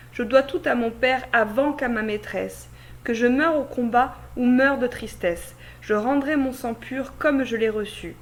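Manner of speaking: measured, emphatic reading of classical French verse; declaimed classroom reading, firm line openings; verse monologue recitation. Acted. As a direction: recite a tragic hero's monologue, pausing at line ends. Reads Rodrigue's verse monologue aloud.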